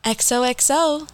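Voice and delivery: slow, breathy narrator sign-off; Gossip Girl voice. Pretend. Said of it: "the Gossip Girl voice".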